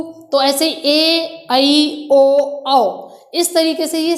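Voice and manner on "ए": slow, stretched ए; long vowel demo. Shown as a demonstration. Teacher showing children the long vowel ए, slowly. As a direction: draw out the long ए. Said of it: "छोटा ऊ दिया हुआ था तो बड़ा ऊ".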